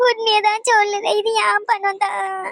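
slow, high, pleading plea; tearful pleading. Acted. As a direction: beg them slowly to believe you. Old woman pleading while accused.

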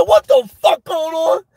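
high, slow startled shout; shocked yell. Retold or imitated. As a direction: yell it as the car shakes under you. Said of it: "I said".

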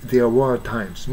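slow phrase, silent r in "were"; non-rhotic "were"; British-style were. Shown as a demonstration. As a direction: draw out "were" with no r. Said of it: "ブリティッシュっぽく".

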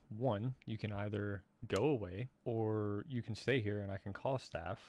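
slow, spelled-out ultimatum; measured, impatient restating; deliberate repetition. Real, not acted. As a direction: lay out the options slowly, pausing between them. Slowly repeats options after being asked.

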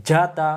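যাতা with a hard "j" from mid-tongue; firm pronunciation. Shown as a demonstration. Teacher drills learners on jim, firm hard "j" in যাতা. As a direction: hit the first sound of যাতা firmly against the palate. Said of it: "শক্ত করে".

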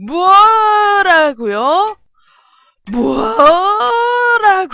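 high, loud, hugely stretched-out cry; over-the-top mock disbelief; hammed-up outrage. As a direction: drag the first syllable out into a swooping shout. Escalating outraged takes of game line.

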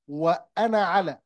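وأنا with short final a before على; alif not pronounced. Shown as a demonstration. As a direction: link وأنا to على without lengthening the na. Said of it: "Here I don't pronounce".

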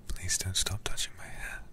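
ordinary talk, nothing marked

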